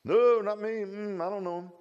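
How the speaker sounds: high, loud frantic denial; panicked denial. Acted. Peter denying the maid, high and frantic. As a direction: blurt it out, scared.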